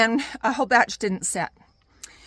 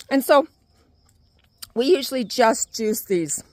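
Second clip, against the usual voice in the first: talking around a cherry; mouth full. Real, not acted. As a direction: talk with fruit in your mouth. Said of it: "cherry in my mouth and now I can't talk".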